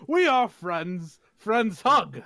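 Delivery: slow, close, earnest. Acted. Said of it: "lean in real close and go".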